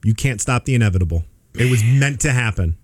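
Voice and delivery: a hint of a cold, fateful agent; low, measured doom, only lightly put on; Mister Smith. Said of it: "Like Mister Smith from The Matrix".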